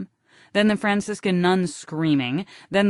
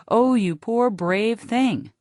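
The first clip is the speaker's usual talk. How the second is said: put-on higher, slow coo, like soothing a toddler; cooing parent; 6 semitones higher, slower than usual. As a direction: gush pityingly over a hurt baby. Parents cooing over fallen baby.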